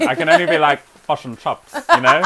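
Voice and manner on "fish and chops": bad New Zealand accent. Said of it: "I can't really do a New Zealand accent".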